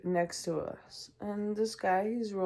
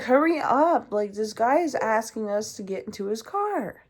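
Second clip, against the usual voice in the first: urgent plea; 3 semitones higher, 7 dB louder than usual. Retold or imitated. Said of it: "I was like".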